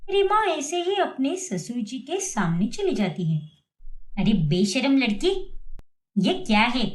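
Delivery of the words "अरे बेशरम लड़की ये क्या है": a mild, acted shout; mock yell. Mother-in-law yelling at the shameless daughter-in-law, mild mock yell. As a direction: scold as if shocked. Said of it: "आप इतना क्यों चिल्ला रही हो".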